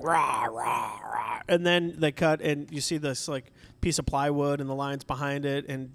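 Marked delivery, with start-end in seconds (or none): 0.0-1.4 whispered roar. Retold or imitated. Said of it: "the lion is like".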